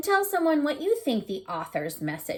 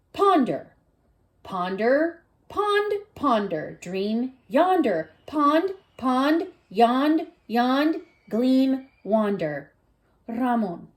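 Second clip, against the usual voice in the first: slow, musical poem reading with a lilt; playful recited poem; slower than usual. Acted. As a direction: savor each word like a little chant.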